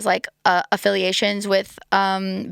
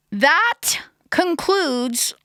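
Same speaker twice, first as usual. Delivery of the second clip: whisper; 7 semitones higher, much slower than usual. Acted. Sudden whispered wrap-up aside.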